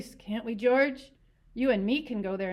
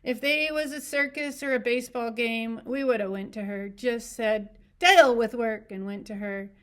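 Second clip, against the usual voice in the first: sing-song; 4 semitones higher, 8 dB louder than usual. A narrator's reading. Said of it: "went on in a sing-song voice".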